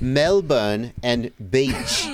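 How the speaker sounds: imitated Australian accent, drawn out; lightly mimicked Australian pronunciation. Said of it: "you have an Australian accent".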